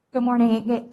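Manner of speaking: muffled behind a face mask; through a face mask. Real, not acted. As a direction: greet the room through a mask. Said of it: "Can you hear me with my mask on?".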